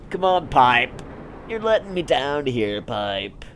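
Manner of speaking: loud, high pleading with the pipe; mock pleading. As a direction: beg the pipe in mock despair.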